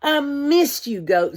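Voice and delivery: high, loud, glad cry; joyful greeting. Acted. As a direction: greet the friend with delight. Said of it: "said Pig".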